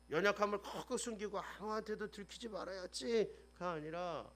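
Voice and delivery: normal talking voice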